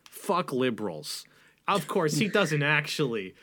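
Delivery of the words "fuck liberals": low, slow and quiet hate; mock host spitting it out; seething mock host; seething pundit. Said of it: "he goes".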